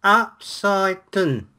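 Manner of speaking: slow trial read. Pretend. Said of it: "tries to read upside down".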